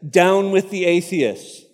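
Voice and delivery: each word laid down slowly and firmly, Down with the atheists; slow defiant declaration. Retold or imitated. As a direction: Polycarp turning the words back on the crowd, slow and firm. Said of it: "he said".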